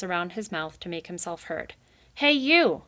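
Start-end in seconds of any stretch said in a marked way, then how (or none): 2.1-2.8 higher, louder call across the pond; shout. Acted. Jittery Rai shouting at the beavers. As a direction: cup your paws and yell. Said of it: "he shouted".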